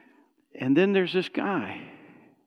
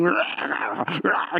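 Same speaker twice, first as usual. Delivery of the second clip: mock growl; much slower than usual. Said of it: "this guy's face is going".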